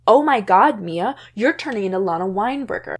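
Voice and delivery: loud gasp of a teen friend, lightly acted; shocked accusation. Friend recoils at Mia's new look, loud. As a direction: blurt it out, half-mocking.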